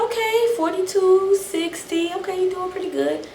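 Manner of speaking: lightly hammed-up inner cheer; self-encouragement. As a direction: pump yourself up mid sit-ups. Counting reps, cheering herself on.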